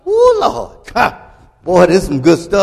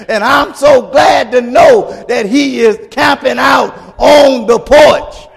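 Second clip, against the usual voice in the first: full-force preaching; 3 semitones higher than usual. Acted. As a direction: preach it out, getting happy. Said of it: "Y'all don't mind me getting happy".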